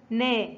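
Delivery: slow model syllable نا; نا with fatha. Shown as a demonstration. Teacher showing learners nun with fatha, نا sounded out slowly. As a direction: draw out نا slowly, n plus fronted a. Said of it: "ينطق".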